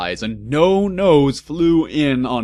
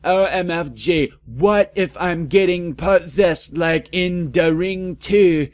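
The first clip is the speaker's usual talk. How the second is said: high, louder mock panic; 7 semitones higher, 4 dB louder than usual. A narrator's reading. Heroine fearing possession, mock panic. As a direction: freak out in a rush.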